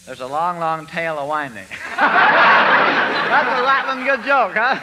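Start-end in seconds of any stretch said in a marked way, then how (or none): 2.0-4.8 slow, chuckling delivery; laughing. Acted. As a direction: chuckle through the words. Laughing at his own pun.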